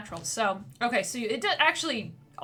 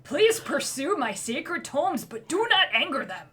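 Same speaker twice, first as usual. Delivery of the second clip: put-on boy wizard; 2 semitones higher, 5 dB louder than usual. Little dwarven boy introduces himself to adventurers. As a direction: puff up like a kid playing Grandmaster.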